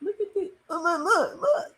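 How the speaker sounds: quick excited pointing, pitch jumping up; urging the viewers to look. Real, not acted. Streamer showing chat the ref's mistake, excited.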